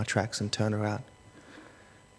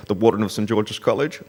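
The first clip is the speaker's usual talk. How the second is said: principal's voice; 4 dB louder than usual. Retold or imitated. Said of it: "he has that principal's voice down pat".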